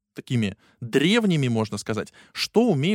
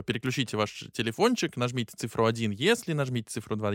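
phone menu voice; 5 dB quieter than usual. Retold or imitated. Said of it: "I V R — это вот тот прекрасный тональный набор".

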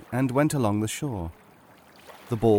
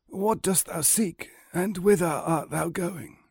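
put-on higher, slow old man's voice; 6 semitones higher than usual. Old man hailing a youth on the road, slow and high. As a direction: greet him slowly as an aged stranger.

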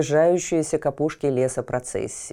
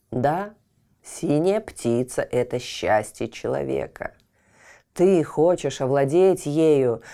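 talking tree. Acted. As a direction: speak like a wise old tree. Oak speaks low.

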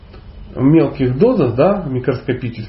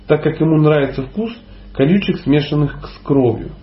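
dictating. Shown as a demonstration. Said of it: "с новой строки".

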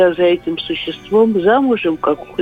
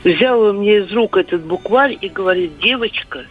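over a landline phone. Real, not acted. Caller on radio phone line.

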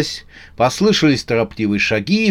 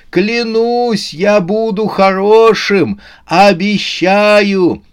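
high, drawn-out pleading cry; pleading shout; 9 semitones higher, 4 dB louder, much slower than usual. A narrator's reading. Новый год swears to his pursuers, pleading loudly. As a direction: swear it at the top of your range. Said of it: "успел прокричать он".

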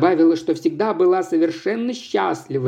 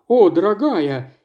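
exclaiming "darling"; 2 semitones higher than usual. Acted. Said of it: "воскликнул".

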